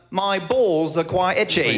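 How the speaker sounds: slow, put-on English accent; comic Englishman's accent. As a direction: draw it out in a mock English accent. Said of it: "Oh, yeah, you go to England".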